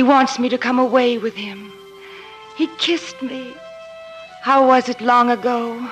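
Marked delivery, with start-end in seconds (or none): 2.6-3.5 soft, lifted, dreamy realization; voiced wonder. Maid savouring doctor's kiss, soft happy wonder. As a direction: say it aloud in quiet delight. Joy growing after the kiss.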